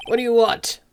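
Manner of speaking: put-on mild gruff old attorney demanding; brusque old lawyer. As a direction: snap the question at the boy. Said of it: "what should his voice be?".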